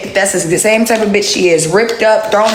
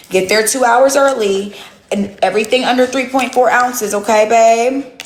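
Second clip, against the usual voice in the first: mock sweet advice; 3 semitones higher than usual. Real, not acted. Mock travel tips to hater.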